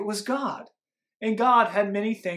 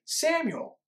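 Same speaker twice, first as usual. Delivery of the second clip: high calling voice, drawn out; 8 semitones higher than usual. A narrator's reading. God calling Samuel by name, called out high. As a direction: call the name from far away in the night. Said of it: "he heard a voice cry out".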